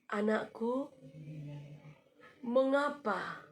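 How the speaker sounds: soft, tender voice of God; gentle voice. A narrator's reading. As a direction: speak gently to a weeping child. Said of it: "suara yang sangat lembut sekali". (suara lembut penuh kasih)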